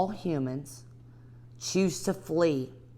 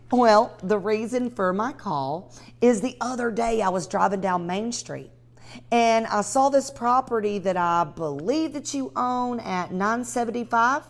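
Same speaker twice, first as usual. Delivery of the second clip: bright, upbeat sales call, pitched up; friendly cold call; 2 semitones higher than usual. Shown as a demonstration. Teaching realtors a cold call, cheerful phone voice. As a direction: sound like you're smiling on the phone. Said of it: "I'm gonna do it one more time".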